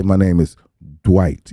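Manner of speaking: "Dwight" said through puckered lips, like a kiss; lips pursed. Shown as a demonstration. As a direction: pucker up and say "Dwight" like a peck on the cheek. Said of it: "pucker your lips like you finna give me a kiss".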